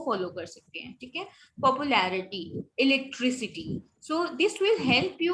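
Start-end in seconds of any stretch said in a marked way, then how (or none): 1.6-2.6 पॉपुलैरिटी with stress on "लै"; third-last syllable stressed. Shown as a demonstration. Teacher models -ity rule, stressing third syllable from end. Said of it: "third syllable from the end is accented". 2.8-3.9 इलेक्ट्रिसिटी with stress on "ट्रि"; third-last syllable stressed. Shown as a demonstration. Teacher models -ity rule, stressing third syllable from end. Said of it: "third syllable from the end is accented".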